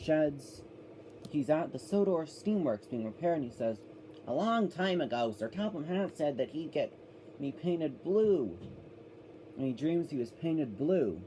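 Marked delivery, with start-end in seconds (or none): 4.3-11.2 a mild take on a storyteller voice for James; a hint of a narrator's voice; George Carlin voice. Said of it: "I'm doing the George Carlin voice".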